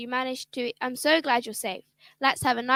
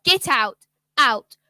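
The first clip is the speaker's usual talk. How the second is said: angry father. Acted. Father throws out stepmother.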